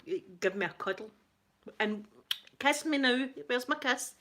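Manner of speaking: mock drunk asking for kisses; affectionate drunk. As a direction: lightly play your cuddly drunk self begging for a kiss. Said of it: "I'm the kind of drunk that".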